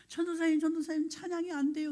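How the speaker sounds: high-pitched mock plea; whining. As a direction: imitate a student whining to the pastor. Second student's retold whining plea. (높은 소리로 징징대는 흉내)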